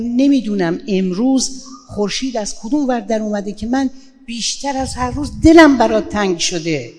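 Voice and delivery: lightly voiced affectionate line; tender wife on the phone. Wife calling her husband at work, tender and affectionate. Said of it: "زنگ زدم بگم".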